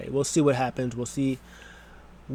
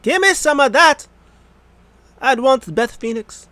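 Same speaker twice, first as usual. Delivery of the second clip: loud, high, hammed-up Australian challenge; bad Australian accent; 11 semitones higher, 8 dB louder than usual. Imitating Rhea Ripley calling out Beth Phoenix, bad Australian accent. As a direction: put on a poor Australian accent, building to a yell. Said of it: "That was my Australian accent. It was horrible".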